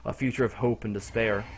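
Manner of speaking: measured, understated narrator read; story narration. A narrator's reading. Narrator tells of opening the door, restrained narration. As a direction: narrate it solemnly, line by line.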